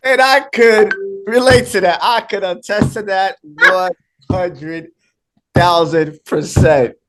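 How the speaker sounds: breathless laughing through the words; real laughter, words stretched out slowly; cracking up while trying to speak; laughing hard. Real, not acted. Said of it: "I'm laughing so hard".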